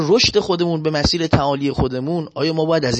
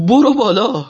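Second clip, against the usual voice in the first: trembling driver; 8 semitones higher, 4 dB louder than usual. Retold or imitated. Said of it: "میلرزید و میگفت این درشکچیه".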